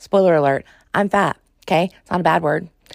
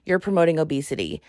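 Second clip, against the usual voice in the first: fast, quieter sneering refrain; mock troll refrain; 2 semitones lower, 3 dB quieter, faster than usual. Host mocking Instagram trolls, fast sneering refrain. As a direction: rattle it off like a tired troll.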